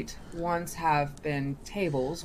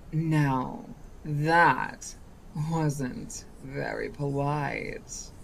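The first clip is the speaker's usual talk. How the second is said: slow mock scolding; 3 semitones lower, much slower than usual. Genie scolding.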